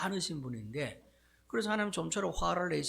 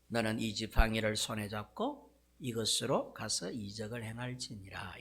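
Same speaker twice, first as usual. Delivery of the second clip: gentle reassurance; 3 semitones lower than usual. Acted. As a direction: soothe him and send him off. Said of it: "모세를 다독다독 거리신 후에".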